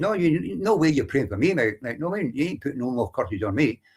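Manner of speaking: ordinary delivery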